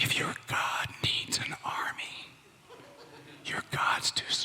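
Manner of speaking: soft, secretive, confiding whisper. Telling listeners something so nobody gets upset: whispering. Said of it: "I'm gonna whisper something to you".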